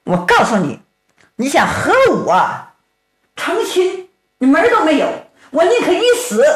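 high, defiant refusal; a young woman refusing a forced marriage, defiant; defiant heroine. Acted. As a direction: throw the refusal in his face. Heroine defies the villain.

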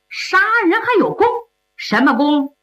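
high, fast disbelieving question; can't believe his ears; incredulous. Acted. Emperor shocked at the killer's claim, high incredulous.

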